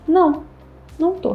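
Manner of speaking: high, clipped pouting "não tô"; sulky denial. Retold or imitated. Girlfriend sulking at boyfriend in car, mock pout. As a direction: pout and deny it, lightly acted.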